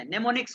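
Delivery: "mnemonics" begun on the N sound, M left silent. Shown as a demonstration. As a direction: drop the opening M of "mnemonics": ne-mo-niks. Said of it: "एम silent है इसमें". ("mnemonics" का पहला एम नहीं बोलना, "नेमोनिक्स")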